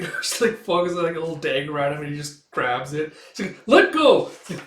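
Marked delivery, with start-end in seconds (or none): 3.7-4.3 high, loud demand; acted cry in a tussle; struggling shout. Fighter whose dagger is grabbed, shouted demand.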